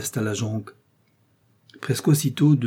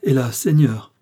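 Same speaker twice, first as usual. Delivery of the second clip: louder mock-terrified plea; feigned moaning; 2 semitones higher, 6 dB louder than usual. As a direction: fake fear, moaning. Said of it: "gémit-il".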